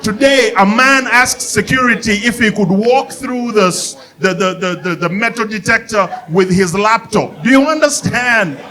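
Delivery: high, disbelieving rant; high incredulous comic rant. Real, not acted. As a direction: pitch it up in disbelief. Incredulous rant about laptop.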